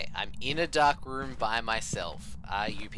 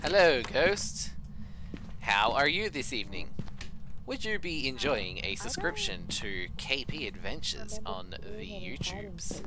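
talky voice; 4 semitones higher than usual. Acted. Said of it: "this is how I talk with my talky voice".

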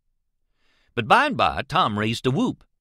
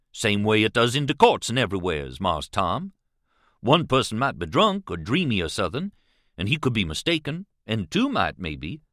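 lightly voiced companion arguing his case in dialect; Jim; 3 semitones higher than usual.

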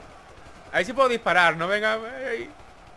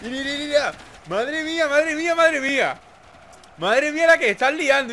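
amazed; 6 semitones higher than usual. Real, not acted. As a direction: gasp at the carnage. Battle erupting, loud amazement.

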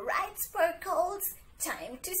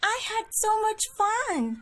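bright, high and loud with glee; over-the-top kids' host delight; excited; 8 semitones higher, 5 dB louder than usual. Acted. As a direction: gush like you just had a blast. Host thrilled after the song.

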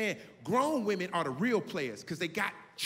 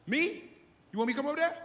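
much higher, loud call over the music; calling across the club; 11 semitones higher, 4 dB louder than usual. Acted. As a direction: yell across the noisy club. Acted shouted exchange across club.

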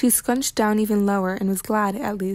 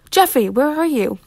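high, raised searching call; sing-out summons, pitched up; 5 semitones higher, 4 dB louder than usual. A narrator's reading. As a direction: holler for a missing person. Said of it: "came Missus Tifton's voice again".

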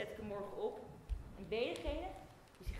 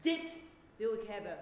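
loud demand; 7 dB louder than usual. Acted. Demanding the token.

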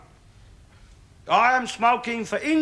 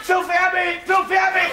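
mocking quote; 3 semitones higher than usual.

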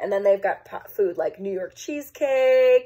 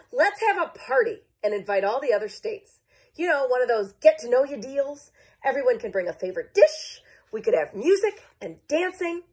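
excited; 3 semitones higher than usual. Acted. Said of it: "exclaimed Kansas".

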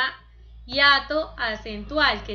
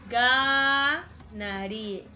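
drawn out; much slower than usual. Shown as a demonstration. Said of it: "Muy bien".

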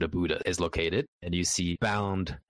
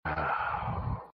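weary sigh; 3 semitones lower, 4 dB quieter than usual. Acted. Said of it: "Wu Yan sighs".

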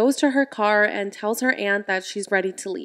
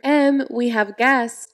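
slow, mildly raised call; mild shout; 2 semitones higher, 4 dB louder, slower than usual. Acted. Father calling daughter down to meet guests, mild shout. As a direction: call upstairs, only half shouting. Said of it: "David shouts".

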